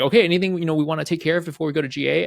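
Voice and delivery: brisk boss asking "anything before launch?"; quoting himself. Retold or imitated. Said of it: "and I was like".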